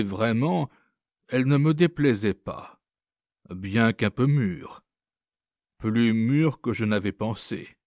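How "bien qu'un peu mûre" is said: usual speaking voice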